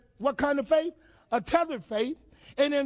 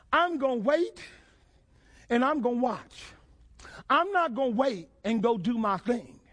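building resolve. Acted. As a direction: grow in conviction line by line.

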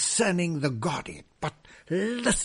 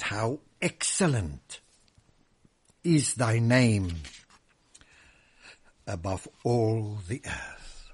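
quieter, gentler take on the psalm; softer, musing recitation; 3 semitones lower than usual. Acted. Preacher to his congregation, reciting the psalm softly. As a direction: say it softly, dwelling on the words. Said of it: "collaborate on that word".

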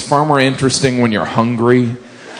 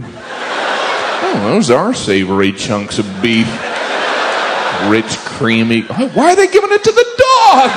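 mock drooling wonder. Acting out dog food craving.

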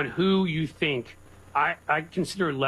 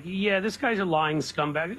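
slow, drawn-out disgust, pitch climbing at the end; scornful; 3 semitones higher, slower than usual. Retold or imitated. Co-host recalling a first look at a scumbag, scornful.

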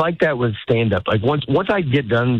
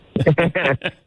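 imitated fake laugh; 5 semitones higher than usual. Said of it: "Daddy, that's what I heard all night".

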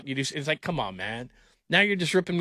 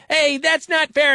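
put-on high, slow childish whine, louder; imitating a whiny kid; 12 semitones higher, 6 dB louder, slower than usual. Dad mimicking his young son complaining, in a high whine. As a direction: mimic a kid protesting, stretched out. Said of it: "When he said".

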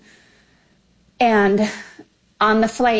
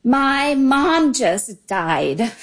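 mildly raised, pleading protest; retold distraught cry; 2 semitones higher than usual. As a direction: re-enact a tearful plea, drawing out the last words. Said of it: "I screamed or if I said loudly".

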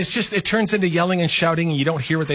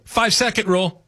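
higher-pitched announcement of "Five-second rule"; "Five-second rule" declared on a raised pitch; calling out a rule; 6 semitones higher than usual. Acted. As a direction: invoke "Five-second rule" like a quick timeout call. Acts out invoking the rule.

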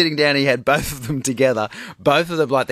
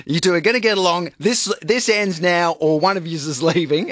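stern dad talk; 3 semitones higher than usual. Retold or imitated. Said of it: "he alpha mailed it".

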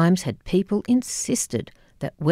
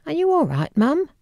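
much higher, anxious question; worried; 10 semitones higher than usual. Retold or imitated. Daughter asking her crying mum, worried and high. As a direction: reach out with sudden worry.

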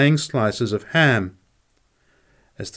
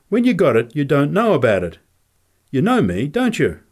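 a hint of the little fighter, pitched up; lightly voiced prize fighter; 4 semitones higher, 3 dB louder than usual. Crazy prize fighter explaining himself to Nick, lightly voiced. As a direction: lightly play an odd, punch-drunk boxer.

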